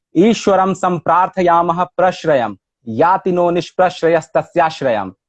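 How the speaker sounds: measured Sanskrit verse recitation; shloka recitation. Shown as a demonstration. Scholar opens the session with a Sanskrit shloka, measured verse recitation. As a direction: recite it in even metre, falling at each line's end.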